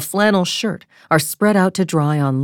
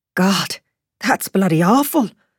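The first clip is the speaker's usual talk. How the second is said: heavy Irish brogue, blurted out; 4 semitones higher than usual. Narrator reads a woman's exclamation, thick Irish brogue exclamation. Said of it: "she exclaims in her thick Irish brogue".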